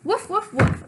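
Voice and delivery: high excited barks; puppy woofs. Acted. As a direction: yap three times like a puppy. Answering doctor as dog.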